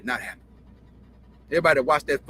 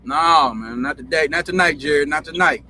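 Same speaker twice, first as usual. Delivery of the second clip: louder, pushing him away with each no; firm loud refusal; 2 semitones lower, 5 dB louder, slower than usual. Retold or imitated. Jimmy brushing off Jerry at the dinner table, firm loud refusal. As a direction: shut him down hard but keep it in a retelling. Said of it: "and Jimmy said".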